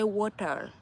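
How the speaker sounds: "water" with the final R sounded; R at the end. Shown as a demonstration. Teaching newcomers to say "water" with its R. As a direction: softly finish "water" on a clear American R. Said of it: "you have to say the R at the end".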